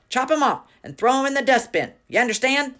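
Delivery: loud high furious command; barked. A narrator's reading. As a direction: hammer the order home. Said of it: "she barked".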